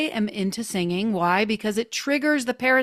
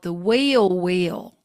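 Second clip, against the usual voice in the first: WHEEL WHEEL in a Southern drawl; Southern accent; 5 semitones lower, much slower than usual. Shown as a demonstration. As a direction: say both words of "wheel wheel" with Southern vowels. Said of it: "say it with a Southern accent".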